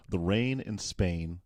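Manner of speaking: put-on slow, tentative American accent; imitated American accent. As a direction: copy American English, unsure of the words. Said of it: "trying to copy what you're saying".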